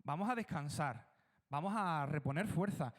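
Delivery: hushed, coaxing advice to Jesus; lightly voiced persuading disciple; cheeky advice to Jesus. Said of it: "le daría un consejo atrevido".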